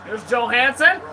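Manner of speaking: lively amateur hockey call, punching key words; live play-by-play. Real, not acted. Amateur commentator follows Penguins and Wild, live play-by-play. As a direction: call the puck action as it happens.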